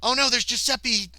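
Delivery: high, loud cry of regret; dismayed realisation. Real, not acted. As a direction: exclaim as it suddenly dawns.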